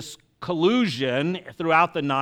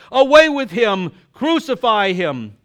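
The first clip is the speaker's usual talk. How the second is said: loud, much higher shout; crowd crying out; 6 semitones higher, 9 dB louder than usual. Acted. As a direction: demand it like a mob. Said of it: "They cried".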